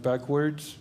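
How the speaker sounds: mild surprised echo of the order; puzzled echo. Retold or imitated. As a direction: repeat it back, thrown.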